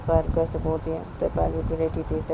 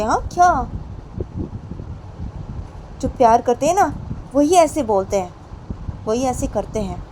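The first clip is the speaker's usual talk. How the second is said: put-on lightly raised, insistent girlfriend voice; Payal, insistent; 4 semitones higher, 5 dB louder than usual. Payal insists to Poonam that love means caring, earnest. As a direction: press the point, earnest and firm.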